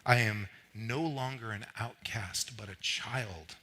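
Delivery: measured, weighty creed with pauses; declaration reading. Real, not acted. Preacher reads who he is in Christ, solemn declaration. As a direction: let each line settle before the next. Reads list of identity statements.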